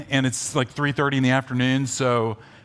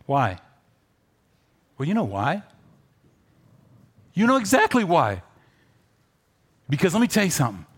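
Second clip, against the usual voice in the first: usual speaking voice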